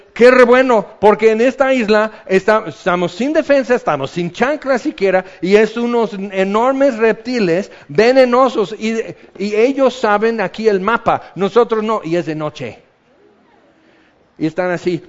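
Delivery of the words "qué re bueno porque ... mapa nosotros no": panicked rant. Retold or imitated.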